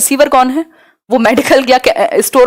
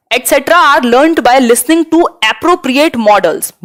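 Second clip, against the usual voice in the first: very slow, each word spaced; dictating a definition to students; slow dictation; much slower than usual. Shown as a demonstration. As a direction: spell the definition out slowly for notes.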